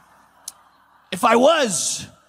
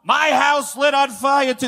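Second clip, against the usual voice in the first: drawn-out, lightly mocking imitation of a president; mock Biden; 4 semitones higher, slower than usual. Comedian imitating the president making light of a disaster, mocking. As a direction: imitate him, stretching out the words slowly. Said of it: "he makes a mockery of it".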